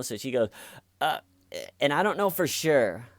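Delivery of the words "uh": short mock sob; badly faked cry noise; fake cry. Girl after mom squeezes her hand, fake sob. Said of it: "an official lie cry".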